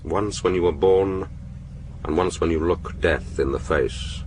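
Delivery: slow, measured poem reading; reciting a haiku. Acted. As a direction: recite each line slowly, with care. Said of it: "read it to me".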